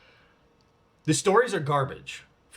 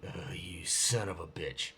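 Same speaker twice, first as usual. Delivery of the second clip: hushed, breathy muttered curse under the breath; secret whisper; 8 semitones lower, 12 dB quieter, slower than usual. Retold or imitated. Silently cursing the new co-star on set, whispered. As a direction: whisper it so nobody hears.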